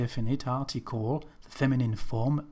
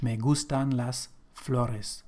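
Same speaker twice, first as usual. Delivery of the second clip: "Me gustan las flores" repeated slowly and quieter, each word clear; slow, softer repeat. Shown as a demonstration. Teacher repeats the example slowly and softly after explaining. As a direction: say it again slowly and softer, to settle it. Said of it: "so generally speaking again".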